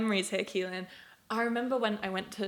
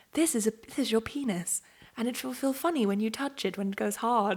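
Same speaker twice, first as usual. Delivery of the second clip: weird, strange, soft, gentle tone. Recalling a memory to a friend, imitating a weird soft voice. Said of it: "it had like that weird soft voice".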